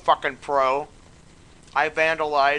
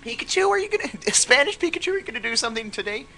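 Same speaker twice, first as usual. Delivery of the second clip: put-on Spanish accent; 8 semitones higher, faster than usual. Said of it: "I would do a Spanish Pikachu".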